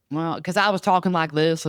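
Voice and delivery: lightly put-on redneck twang; redneck accent. Telling how a friend heard the talk, redneck accent. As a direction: slip into a mild redneck accent. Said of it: "You're talking like a redneck".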